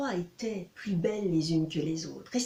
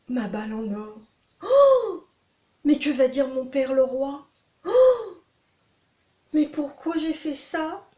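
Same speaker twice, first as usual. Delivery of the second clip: high, louder tearful lament; distraught princess; 4 semitones higher, 5 dB louder, slower than usual. Acted. Princess sobs by the fountain over her ball. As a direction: wail like a spoiled princess.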